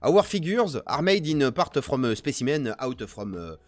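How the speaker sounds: English read with a thick French accent. Shown as a demonstration. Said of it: "avec l'accent français, c'est mieux".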